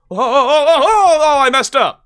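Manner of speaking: high, loud, laughing oh-oh-oh; mock panic. Shown as a demonstration. Speaker showing friends what real panic sounds like, high and laughing. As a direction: act out panic while laughing. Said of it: "panic is like".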